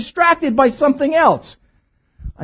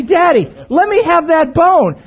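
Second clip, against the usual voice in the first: pleading dog voice; 5 semitones higher, 4 dB louder than usual. Retold or imitated. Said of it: "He'd say".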